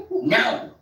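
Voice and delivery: gasp, then a high scandalized "No"; high-pitched, hammed-up shock; mock shocked gasp. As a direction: imitate a lady aghast. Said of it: "And she's like".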